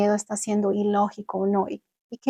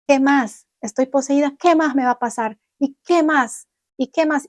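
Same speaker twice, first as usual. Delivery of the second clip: defiant challenge; 4 semitones higher, 3 dB louder than usual. Retold or imitated. Challenging the fear aloud.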